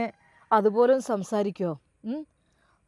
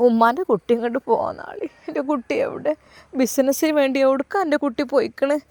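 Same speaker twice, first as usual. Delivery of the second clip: mother crying; 3 semitones higher than usual. Acted. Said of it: "ശരിക്കും കരഞ്ഞുകൊണ്ട് അതാ ഉമ്മ വിളിക്കുകയാണ്".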